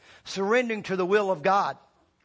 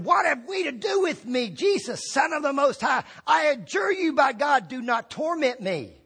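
a loud demon cry, pitched up; 6 semitones higher than usual. A narrator's reading. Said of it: "crying out with a loud voice".

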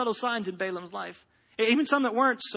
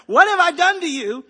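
talking donkey; 4 semitones higher, 7 dB louder than usual. Acted. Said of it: "it asked Balaam".

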